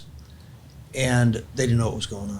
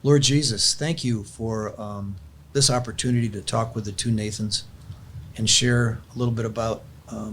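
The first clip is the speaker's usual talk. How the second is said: heartfelt prayer. Acted. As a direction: pray it aloud, earnest and unhurried. Closes the talk with prayer.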